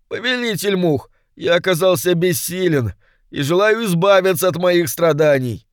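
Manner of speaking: high, strained imp pleading its master; a petty demon begging for release, voice pitched high; high complaining imp; whining little demon. A narrator's reading.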